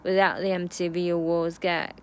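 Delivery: "Without" and "V" strong, "the" light; 重读without和V; stress on without and V. Shown as a demonstration. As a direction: punch "Without" and "V". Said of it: "这个V和without要重读".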